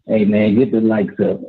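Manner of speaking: muffled bad phone line; garbled call, like under water; underwater. Real, not acted. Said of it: "you sound like you underwater".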